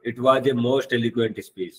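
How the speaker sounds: "It was a most eloquent speech" read very slowly, word by word; slow example sentence. Shown as a demonstration. Teacher to students, reading the example sentence slowly. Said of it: "जैसे देखो यहाँ पे".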